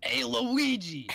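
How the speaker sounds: high, slow, whiny Italian plumber; sick Mario. Acted. Sick Mario calling his brother, high slow moan. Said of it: "You sound like sick Mario".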